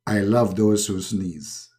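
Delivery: low, slow godly confession; solemn deity without any sound effect; Allah. Acted. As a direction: confide slowly in a deep voice. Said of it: "I am Allah".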